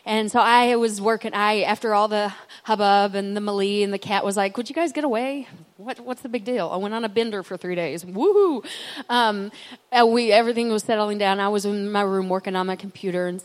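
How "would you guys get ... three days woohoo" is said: cat's voice. Pretend. Returned cat brushes off the family's excitement, mock cheeky. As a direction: play the cat shrugging off the fuss.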